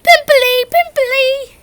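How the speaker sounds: high loud taunting yell. A narrator's reading. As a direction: chant the taunt at full volume.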